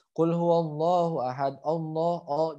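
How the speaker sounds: "Allah" with a rounded O, "Olloh"; common misreading. Retold or imitated. Teacher imitates how many people misread it, O in "Allah". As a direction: recite with O opening "Allah". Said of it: "masih banyak bacanya".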